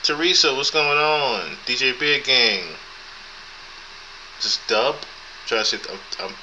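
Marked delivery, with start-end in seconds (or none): 0.0-2.6 high, slow, drawn-out hello; excited greeting. Real, not acted. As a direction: call out to a viewer in chat. Greeting a chat viewer.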